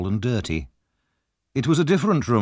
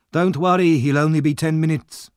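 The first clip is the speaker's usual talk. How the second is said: Fagin playing the kindly old man; fond old Fagin; 6 semitones higher, 4 dB louder than usual.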